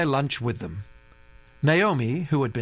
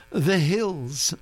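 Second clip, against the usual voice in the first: laughing; 5 semitones higher than usual. A narrator's reading. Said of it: "Naomi laughed".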